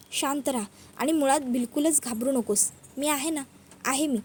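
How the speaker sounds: gentle, slightly hushed comfort; soothing reassurance. Acted. Urja telling Padma she is there, reassuring. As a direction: reassure softly, settling her fear. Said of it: "ऊर्जा आता पद्माला शांत करते".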